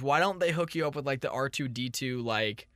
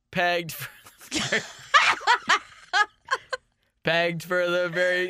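pirate voice; 6 semitones higher, 5 dB louder than usual. Acted. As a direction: ham it up like a pirate, laughing. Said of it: "like a pirate".

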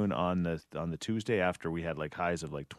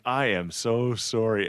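apologetic; 3 semitones higher, 5 dB louder, slower than usual. Retold or imitated. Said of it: "I am like".

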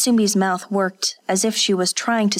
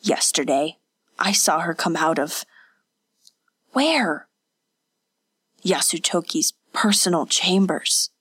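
growing harder. Acted. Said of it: "voice grew harder with each word".

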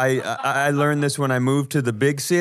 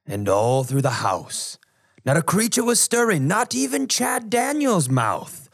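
storybook Christmas poem reading; poem recitation. Acted.

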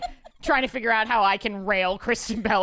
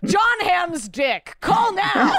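infomercial; 7 semitones higher, 5 dB louder, much slower than usual. Pretend. Mock TV ad pitch.

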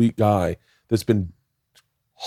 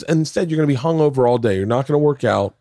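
self-scolding; 5 semitones higher than usual. Retold or imitated. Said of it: "I'm really beating myself up".

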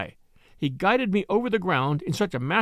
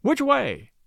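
mild shout, pitched up high; high, lightly raised call; shouted question; 7 semitones higher than usual. A narrator's reading. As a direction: call out the question urgently, without much volume. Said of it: "Blantyre shouted".

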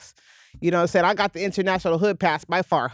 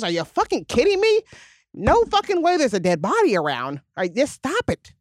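mock disbelief; 3 semitones higher than usual. Imitating Beverly Hills kids.

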